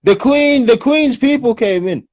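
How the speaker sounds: high, slow posh Brit mimicry; mocking posh English voice. Mocking the proper British newcomer in a posh voice. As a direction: put on a proper upper-class English voice to mock. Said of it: "That's how they'll make fun of you".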